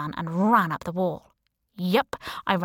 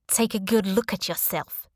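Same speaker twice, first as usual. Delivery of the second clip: put-on Russian accent. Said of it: "she said in a Russian accent".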